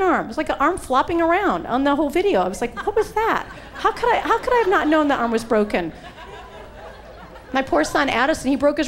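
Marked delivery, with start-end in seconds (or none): 2.8-5.9 laughing disbelief. Retold or imitated. Laughing at herself afterward.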